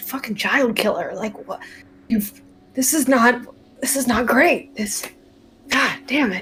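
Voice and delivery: quiet muttering, mumbled to himself. A character unattuning from a sword, muttering to himself. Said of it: "I'm just kind of muttering to myself".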